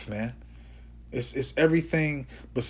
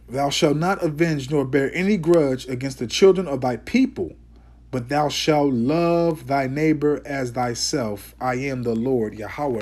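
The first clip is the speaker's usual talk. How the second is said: measured, deliberate verse reading; scripture reading. Acted. Preacher reading the law to his people, scripture reading. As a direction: read the commandment out with weight.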